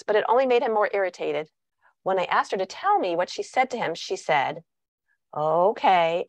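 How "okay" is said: dismissive tone. Retold or imitated. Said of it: "her tone of voice is saying, Calm down".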